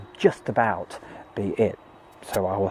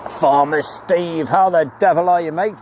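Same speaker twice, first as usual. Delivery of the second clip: hearty greeting; 5 semitones higher, 3 dB louder than usual. Real, not acted.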